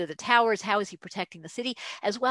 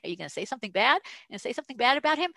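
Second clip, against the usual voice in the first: mild prodding; 3 semitones higher, much faster than usual. Retold or imitated. Herod keeps pressing the blinded rabbi to curse, mild prodding. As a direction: nudge him with a repeated question, speeding up. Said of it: "So Herod keeps prodding him".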